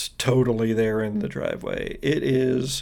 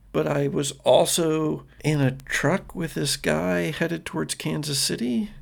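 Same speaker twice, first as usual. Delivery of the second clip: mildly hesitant, searching delivery; lightly voiced girl, stumbling over her words; confused girl; 2 semitones higher than usual. Girl insists she is being honest, confused. Game master plays confused Cassie.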